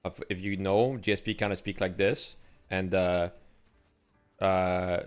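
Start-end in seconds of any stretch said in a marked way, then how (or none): 0.0-2.3 heavy French Canadian accent. Shown as a demonstration. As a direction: speak English like a Quebecer. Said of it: "I can speak English with a pretty heavy French Canadian accent".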